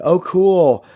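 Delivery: high, loud oh cool; light up at the news; excited reaction. Real, not acted. Reaction to viewer's location.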